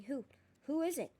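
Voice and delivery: high, loud, disbelieving; disbelieving shout. A narrator's reading. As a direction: demand it in shock. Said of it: "shouted Mister Crouch, sounding highly disbelieving".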